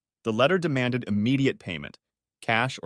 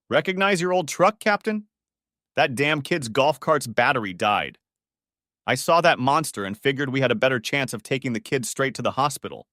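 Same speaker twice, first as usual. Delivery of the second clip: loud, higher urgent shout to the captain; urgent call; 3 semitones higher, 3 dB louder than usual. Acted. Jose calls to his captain urgently, excited and loud. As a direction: call it out over the engine.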